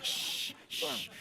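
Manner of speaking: unvoiced hushing shh; breathy conspiratorial shh; shushing. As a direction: hush the room with a whispered shh.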